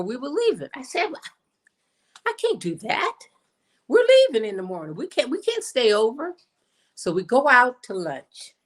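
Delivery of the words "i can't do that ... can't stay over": high, quick, insistent retold objection; retold protest. Guest turning down an invitation to stay over, retold protest. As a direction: protest it higher, getting faster.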